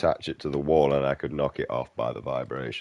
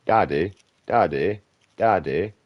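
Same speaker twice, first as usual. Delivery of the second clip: put-on crying child; 4 semitones higher, 5 dB louder, slower than usual.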